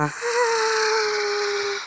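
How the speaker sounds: very high, loud female shriek. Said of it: "As it would sound like".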